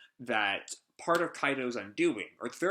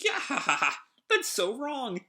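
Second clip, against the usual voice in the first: laughing; 12 semitones higher than usual. Acted. Showgirl laughing at Queen's words.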